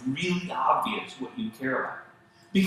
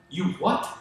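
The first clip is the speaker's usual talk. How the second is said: higher-pitched, acted indignation; put-on marital outrage, pitched up; mock angry spouse; 5 semitones higher than usual. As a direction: play a hurt spouse listing offences. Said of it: "now she's angry or he's angry".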